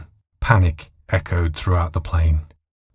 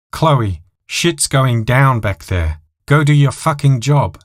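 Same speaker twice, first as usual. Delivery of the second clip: higher, louder, slow demand; angry order; 6 semitones higher, 3 dB louder than usual. A narrator's reading. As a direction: order her back there. Pilot ordering stewardess.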